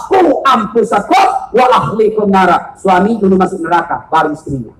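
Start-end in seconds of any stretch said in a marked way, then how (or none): 0.1-2.8 proclaimed verse. Acted. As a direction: declaim the verse with force. Preacher proclaims Quran verse.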